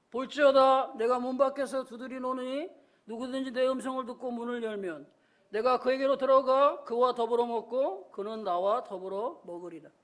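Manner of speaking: measured, solemn Bible reading; scripture reading. Acted. Pastor reads Revelation to the congregation, solemn recitation. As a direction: read the verse out formally, falling low at the end.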